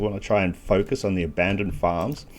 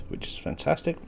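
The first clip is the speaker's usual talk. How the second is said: hiccups; 7 semitones higher, 8 dB quieter than usual. Real, not acted. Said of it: "Sorry, I've got the hiccups".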